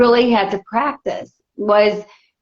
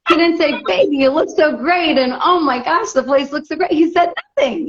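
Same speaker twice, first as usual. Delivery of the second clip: higher, indignant retelling; pitched-up indignation at the husband; 5 semitones higher than usual. Retold or imitated. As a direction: tell it with rising outrage.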